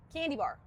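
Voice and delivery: "candy bar" with a sounded final R; childish American candy bar. Shown as a demonstration. Repeating the childhood word, American "candy bar". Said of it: "Other things are more childish".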